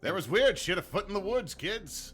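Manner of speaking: squeaky high warning voice; shrill high-pitched spooky warning; high cartoon voice. Voicing Mothman warning kids.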